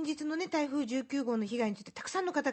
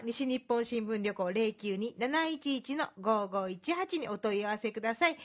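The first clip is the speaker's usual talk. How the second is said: dictating. Acted. Reading out the phone number.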